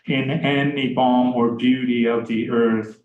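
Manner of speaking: "balm" and "beauty" leaned on; stressed verse line. Shown as a demonstration. Lecturer rereading the line to show its inversion, emphatic. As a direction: read the line pointing out its inversion. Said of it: "that wonderful inversion in that line".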